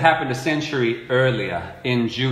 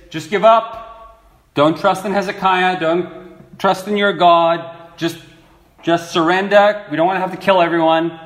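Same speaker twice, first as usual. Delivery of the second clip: mock yelling; 4 semitones higher, 3 dB louder than usual. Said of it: "a guy who starts yelling inside in Hebrew".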